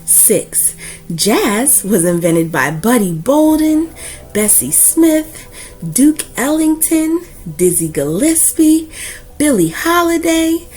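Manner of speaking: put-on steady, earnest read-aloud for kids; warm, proud storyteller reading to a class; story narration. Reads a picture book aloud.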